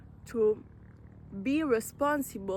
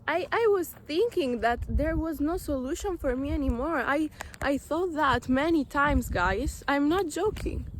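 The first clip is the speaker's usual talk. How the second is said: real emotion; 4 semitones higher than usual. Real, not acted. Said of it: "I'm so emotional right now".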